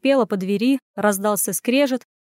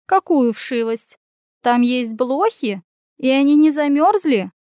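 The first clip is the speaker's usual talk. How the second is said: flustered at the thought of fleas; alarmed cat; 4 semitones higher, 4 dB louder than usual. Acted. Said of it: "всполошилась кошка".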